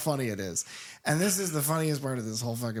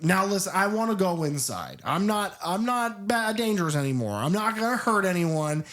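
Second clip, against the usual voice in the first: put-on indignant childish Blair; 4 semitones higher than usual. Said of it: "he's so indignant, and he sounds like a child".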